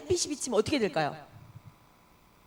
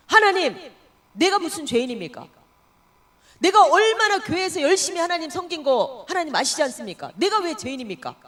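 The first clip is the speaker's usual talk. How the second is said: indignant protest; 3 semitones higher, 5 dB louder than usual. Retold or imitated. Deaconess argues with God.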